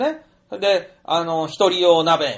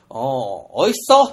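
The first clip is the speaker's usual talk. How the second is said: delighted exclaim; 2 semitones lower, 3 dB louder than usual. Retold or imitated. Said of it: "とかね".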